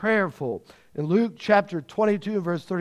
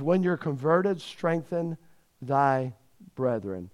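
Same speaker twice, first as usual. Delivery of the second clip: fading softer and lower to the end; Jesus tenderly charging Peter, fading away; gentle charge; 3 semitones lower, 3 dB quieter, slower than usual. Acted. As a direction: let it sink into a tender hush.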